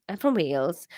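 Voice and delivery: put-on tentative Welsh accent; Welsh, feeling for the accent. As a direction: try on a Welsh voice. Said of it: "he's Welsh".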